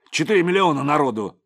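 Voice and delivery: exasperated outburst. A narrator's reading. Krepleny protests, flared up.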